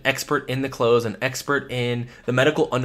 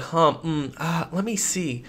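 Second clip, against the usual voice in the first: curious fillers; 3 semitones higher, 3 dB quieter, slower than usual. Shown as a demonstration. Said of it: "You're saying filler words like".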